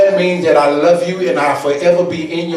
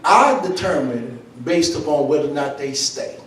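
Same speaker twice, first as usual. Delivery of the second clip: softer, lower, intimate sermon talk; quiet low preaching; 4 semitones lower, 7 dB quieter than usual. Acted. Preacher speaking softly to the room about quitters. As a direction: pull them in close, speak it low.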